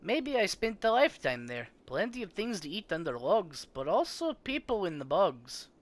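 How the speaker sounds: high, sing-song odd little man; a strange hermit talking in riddles; quirky Trigby voice. Acted.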